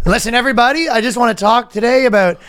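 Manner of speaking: preacher voice. Pretend. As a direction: preach it to the flock. Mock sermon to congregation.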